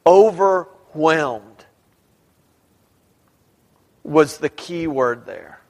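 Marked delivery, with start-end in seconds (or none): 0.1-1.7 "Overwhelmed" stretched very slowly; stress on Overwhelmed. Shown as a demonstration. Preacher singling out the key word, "Overwhelmed" slow and emphatic. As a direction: draw out "Overwhelmed" at half speed, weighing each part. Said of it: "put emphasis on that very first word".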